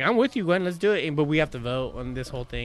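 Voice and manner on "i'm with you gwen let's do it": higher and louder, keen voice; imitating eager agreement. Backing up Gwen's movie pick, higher and louder eager voice. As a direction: eagerly back up the friend. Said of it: "And I was like".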